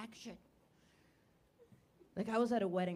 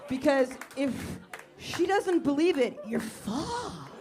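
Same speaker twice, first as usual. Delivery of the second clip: laughing panic; 4 semitones higher, 5 dB louder, slower than usual. Acted. Comic builds panic laughing.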